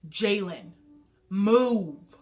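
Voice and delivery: loud, furious shout of her name and the order; yelling at the little sister to get out of the way; mad yell. Retold or imitated. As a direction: blast it at the stubborn sister. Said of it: "And I got so mad".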